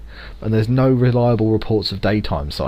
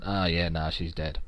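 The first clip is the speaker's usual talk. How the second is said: lazy doctor; 4 semitones lower, 9 dB quieter than usual. Retold or imitated. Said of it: "just went".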